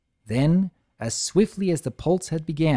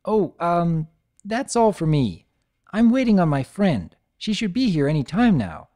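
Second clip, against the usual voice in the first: flustered mare; 4 semitones higher than usual. Acted. Lyra flustered.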